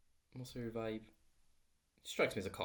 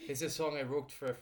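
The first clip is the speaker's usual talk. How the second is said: lightly put-on bad Scottish accent; a hint of a bad Scottish voice; 4 semitones higher than usual. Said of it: "that's a bad, really bad Scottish accent".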